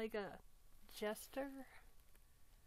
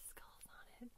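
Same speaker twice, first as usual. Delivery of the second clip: whisper; 17 dB quieter than usual. Real, not acted. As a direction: drag it out in a whisper. Admiring the necklace.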